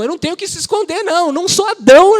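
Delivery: bem mais alto e agudo, gritando; pregação exaltada. Real, not acted. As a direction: proclama como brado de fé. Pregador exclama com força. (brado alto e agudo de pregador)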